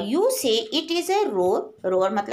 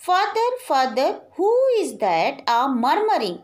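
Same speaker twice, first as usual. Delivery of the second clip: slow poem recitation; 3 semitones higher, much slower than usual. Acted. Teacher reading the poem line to her class, slow and measured. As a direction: draw out each word slowly, recitation style.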